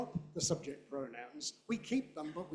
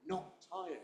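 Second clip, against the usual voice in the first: "Not" and "tired" stressed, softer; softly weight both "Not" and "tired"; stressed negative; 2 semitones higher, 7 dB quieter than usual. Shown as a demonstration. Teacher correcting the learners' stress, weight on not. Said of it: "With those tiny little pronouns".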